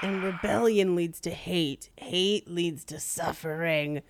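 low slow Yoda wisdom. Pretend. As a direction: intone it like Yoda. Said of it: "like Yoda".

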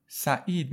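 سعید with ا and ای each sounded; two separate vowels. Shown as a demonstration. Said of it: "یه دونه ا باید بگم". (سعید با دو صدای جدا)

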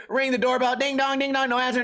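normal talking voice

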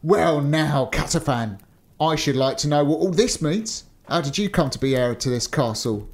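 usual speaking voice

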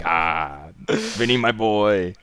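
slow, oily mock producer; a hammed-up sleazy boss; mock Harvey purring at Vinny; creepy mogul. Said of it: "He's like".

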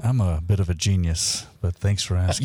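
low, smooth late-night radio voice; midnight sexy voice. Acted. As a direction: purr it like a midnight radio host. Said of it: "You don't have to come on with the midnight sexy voice".

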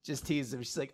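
ordinary delivery

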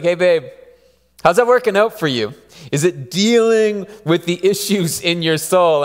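mock-innocent ribbing; teasing. Wife teases her husband about his stress cleaning, playfully. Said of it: "she'll be like".

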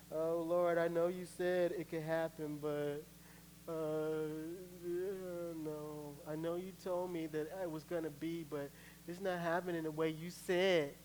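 mock plaintive prayer; drawn-out, wavering grumble to God; doubting complaint. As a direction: complain weakly, lightly acted. Acts weaker self complaining to God.

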